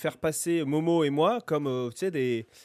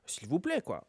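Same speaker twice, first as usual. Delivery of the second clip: put-on tired old man; 4 dB quieter than usual. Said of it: "soit je fais".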